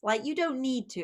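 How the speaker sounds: a parent waving away the tears; mild mock brush-off; dismissive parent. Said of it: "a dismissive response".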